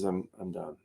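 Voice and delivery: barely gets it out; weak, done. Retold or imitated. Sick drummer giving up mid-gig, soft and spent. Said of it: "he says".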